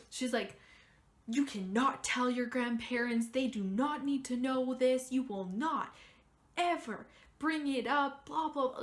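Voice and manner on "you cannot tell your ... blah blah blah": imitating a frantic mom, louder; mom unloading. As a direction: rattle off mom's orders in a raised voice. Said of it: "she just unloads on me".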